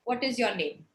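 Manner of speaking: "What is your name?" kept on an even, level tone. Shown as a demonstration. Teacher demonstrating to the class how tone works, level tone on "What is your name?". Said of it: "in a level tone".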